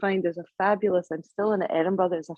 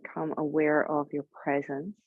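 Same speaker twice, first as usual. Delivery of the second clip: unhurried guiding voice with long pauses; guided meditation. Real, not acted. Yoga teacher settling the group before Yoga Nidra, guided meditation. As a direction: ease them into stillness, leaving long silences. Begins leading the guided practice.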